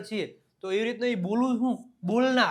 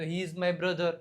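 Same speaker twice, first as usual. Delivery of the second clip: slow dictation; 3 semitones lower, 3 dB quieter, much slower than usual. Shown as a demonstration. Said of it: "તે મારો ભાઈ છે".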